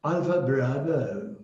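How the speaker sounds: Alpha, bravo said slowly and relished; slow florid alpha bravo. Shown as a demonstration. Teacher savouring the British Alpha, bravo. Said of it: "it's very interesting".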